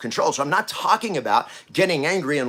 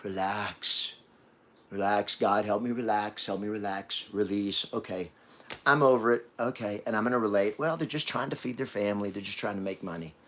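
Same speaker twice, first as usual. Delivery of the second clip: mock self-calming; 6 semitones lower, 5 dB quieter than usual. Mocking people who suppress anger, hushed self-soothing. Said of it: "He didn't go like".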